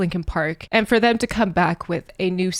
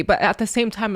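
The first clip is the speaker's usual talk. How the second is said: usual speaking voice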